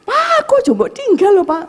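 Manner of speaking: high-pitched cry out to a husband; shrill-pitched calling, acted out; retold desperate scream. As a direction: re-enact a wife's panicked wail.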